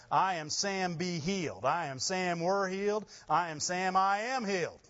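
rising, climbing confession of healing; building declaration. Real, not acted. Preacher to the congregation, building bold declaration. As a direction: build it up with each repeat.

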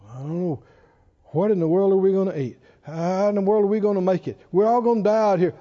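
quick, low mock worry; lightly voiced fretful complainer; mock grumbling. Mocking grumbling in the camp.

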